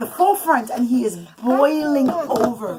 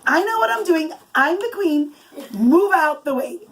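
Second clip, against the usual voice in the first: higher, commanding royal voice, chin up; authoritative queen; 5 semitones higher than usual. Acted. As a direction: sweep past the guards like a confident queen. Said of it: "but she walked with such authority".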